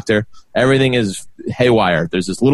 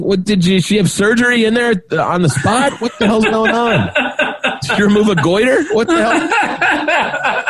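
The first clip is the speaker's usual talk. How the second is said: high, laughing mock outrage at the doctor; laughing disbelief; 10 semitones higher than usual. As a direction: ask it incredulous, cracking up as you go.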